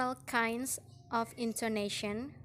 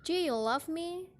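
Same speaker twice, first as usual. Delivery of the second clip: high question climbing up to "me"; higher voice, rising end on "me"; rising yes-no question; 6 semitones higher than usual. Shown as a demonstration. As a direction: lift the pitch all the way to "me". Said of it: "rising intonation in yes or no question".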